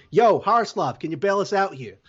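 tossed-off, admittedly bad Boston accent; lightly put-on Boston accent as a Bruins player pleading. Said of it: "that was my Boston Bruins accent".

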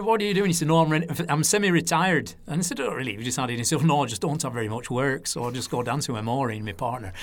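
put-on lightly done old Lancashire man, easygoing; a hint of broad northern Lancashire, chatty and matter-of-fact; Lancashire accent. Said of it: "So it's my Lancashire accent there".

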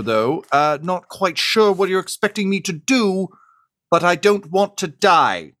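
squeaky, indignant goblin cook pleading not to die; Chef Goblin Ramsay. Acted. Goblin chef answers the rebels on the comms, high and indignant. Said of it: "a voice say".

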